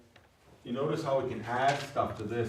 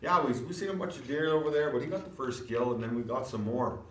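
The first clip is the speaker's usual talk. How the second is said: high, quick casual telling; just stating; 4 semitones higher than usual. Shown as a demonstration. Teacher voicing a casual hunter, matter-of-fact. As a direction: chat it off matter-of-factly. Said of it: "Where if it was like".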